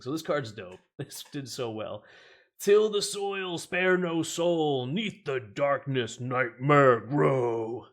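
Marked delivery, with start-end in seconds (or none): 2.6-7.9 slow, sing-song reading of a rhyme; nursery rhyme voice. Real, not acted. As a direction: chant it like a creepy nursery rhyme. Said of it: "Children nursery rhyme".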